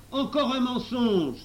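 loud, high, drawn-out outcry; exclaiming. A narrator's reading. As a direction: cry out an accusation. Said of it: "s'écria le professeur".

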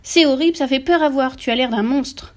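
high, loud scolding that eases off; horrified wife berating her husband; glapissement horrifié. A narrator's reading. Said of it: "glapit la mère". (reproche glapi, horrifié)

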